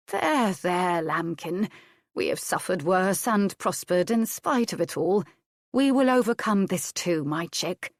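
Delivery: lightly voiced old nurse comforting; soothing old nurse. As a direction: hush her like a nurse with a crying child. Nurse comforts weeping Adair.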